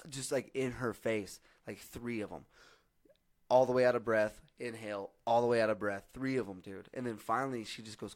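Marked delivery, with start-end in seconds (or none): 3.5-4.4 yelling. Retold or imitated. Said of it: "I yell in that same manner". 5.3-6.1 yelling. Retold or imitated. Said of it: "I yell in that same manner".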